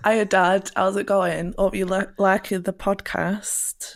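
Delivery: enthusiastic northern English greeting; northern accent. Shown as a demonstration. Greeting Dad in her hometown way, enthusiastic northern accent. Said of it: "give us an impression of your usual accent".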